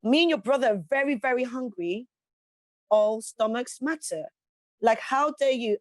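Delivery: mock scolding mum. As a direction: play the offended hungry mother teasing her daughter. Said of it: "And I was like".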